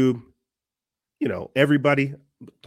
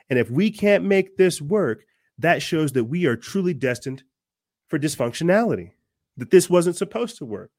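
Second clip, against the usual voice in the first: preaching. Real, not acted. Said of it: "I'm preaching and I'm rambling".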